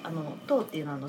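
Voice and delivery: normal talking voice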